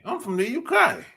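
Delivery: high-pitched teasing British imitation; mock UK accent. Host teasing guys from the UK, mock British accent. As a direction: put on a joking British accent, K said as "kye". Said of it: "especially if they're from the U K".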